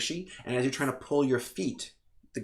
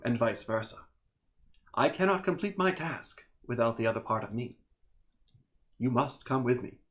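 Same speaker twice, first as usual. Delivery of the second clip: measured elemental being with long pauses; lightly voiced calm entity. Elemental double urges Plonk to come along, calm and deliberate. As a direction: lightly play a calm, insistent otherworldly being.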